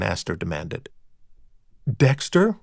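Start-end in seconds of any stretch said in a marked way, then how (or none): 2.0-2.6 higher, questioning call. A narrator's reading. Rita calls from the bedroom to find out who's there, calling out. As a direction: call through from another room. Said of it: "Rita called from the bedroom".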